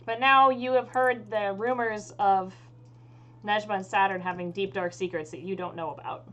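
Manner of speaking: game master narration. Acted. Game master sets the scene.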